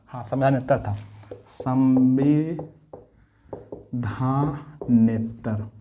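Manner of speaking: teacher drawing out a term for students to write down; slow dictation. Shown as a demonstration. Teacher dictating a new term, very slowly. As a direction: stretch the word out syllable by syllable. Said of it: "इसको आप तोड़ के पढ़ेंगे".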